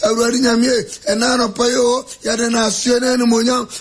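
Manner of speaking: fervent extempore morning prayer; rhythmic chanted prayer. Acted. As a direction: pray aloud for the congregation. Morning prayer, long held.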